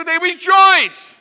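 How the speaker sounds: slow, loud, high laughing delivery. Real, not acted. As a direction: laugh it out, savouring the joke. Family delighting in sliver.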